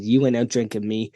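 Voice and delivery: deadpan imitated Boston accent; deadpan, a touch of Boston; Matt's Boston accent. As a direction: quote a friend in lightly put-on Boston. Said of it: "in his full accent said".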